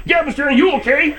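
high, strange character voice; a squeaky stranger asking; put-on voice. A put-on caller voice.

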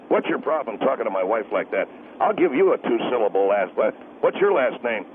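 low, gruff angry husband. Acted. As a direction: growl it like a protective husband.

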